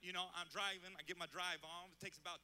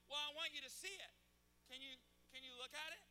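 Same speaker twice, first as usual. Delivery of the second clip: pleading little son; 5 semitones higher than usual. Retold or imitated. Son begging dad to look.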